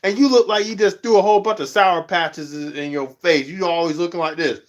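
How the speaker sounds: high, incredulous call-out, starting very high; mock scolding. Vlogger scolding a grumpy livestreamer, high and incredulous. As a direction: scold them in disbelief. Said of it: "and I'm like".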